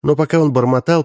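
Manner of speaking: usual speaking voice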